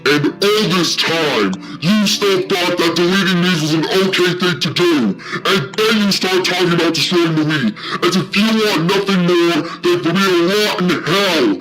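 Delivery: heated, accusing rant; angry yelling. Acted. Edeled confronts Kyle about deleting memes, angry yelling. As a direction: demand an answer with mounting outrage. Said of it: "Edeled yelled even louder".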